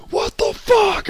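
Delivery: high, loud yelled "what the fuck"; exasperated outburst. Retold or imitated. Gamer fed up with dying, yelling high and loud. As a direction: blurt it out in disbelief. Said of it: "until finally I'm like".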